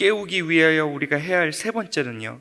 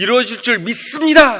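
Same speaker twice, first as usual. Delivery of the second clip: confident, assured, raised voice, full of conviction; 6 semitones higher, 8 dB louder than usual. Acting out someone finishing a prayer with a declaration, confident, assured voice. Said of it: "확신에 찬 목소리로".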